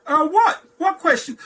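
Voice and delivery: high mock-innocent squeak; playing innocent. Young employee to stunned boss, mock innocence. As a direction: feign not knowing what he means. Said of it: "I'm like".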